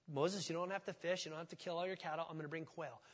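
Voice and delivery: soft, easy reassurance, fading; calm God. Retold or imitated. God reassuring Moses, soft and easy. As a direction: settle Moses down gently.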